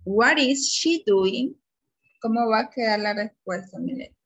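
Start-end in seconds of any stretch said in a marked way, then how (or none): 0.0-1.5 slow, higher classroom question; raised, deliberate teaching voice; slow prompting question. Shown as a demonstration. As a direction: prompt a pupil word by word.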